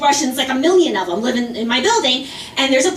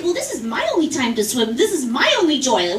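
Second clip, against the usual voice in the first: mocking echo. Swimmer to the woman, a flat mocking echo. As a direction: throw her line back at her dryly. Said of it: "I said".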